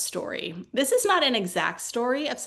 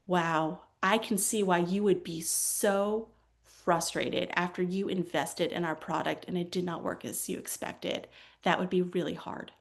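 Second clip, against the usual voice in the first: validating empathy; 2 semitones lower, 4 dB quieter than usual. Acted. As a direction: soothe an upset customer, unhurried. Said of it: "the art of validation".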